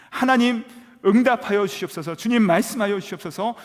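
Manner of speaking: high, loud, pleading prayer cry. Retold or imitated. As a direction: cry out to God at full voice. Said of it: "고래고래 기도도 하고 소리도 지르고". (목청껏 하나님께 부르짖는 기도)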